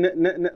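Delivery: "ن، ن" held as a bare nasal sound; isolated sound. Shown as a demonstration. Teacher to class, sounding out the double N: nasal sound. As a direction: hum out "ن" twice through the nose. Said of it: "ده صوت الان ولا الجي".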